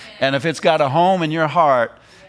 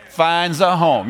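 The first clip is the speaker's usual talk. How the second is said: slow emphasis; slower than usual. Shown as a demonstration. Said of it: "I like the way he said that".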